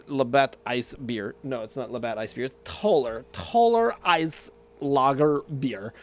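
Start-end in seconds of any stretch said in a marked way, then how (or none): 3.3-5.9 put-on Russian accent. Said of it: "which I say in my Alexander Godunov voice".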